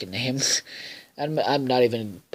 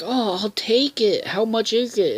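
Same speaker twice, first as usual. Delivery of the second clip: Milo voice; 9 semitones higher than usual. Retold or imitated. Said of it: "and he's like".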